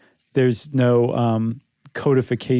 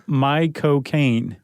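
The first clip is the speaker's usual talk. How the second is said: Michael Caine accent; much slower than usual. Shown as a demonstration. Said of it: "Say it".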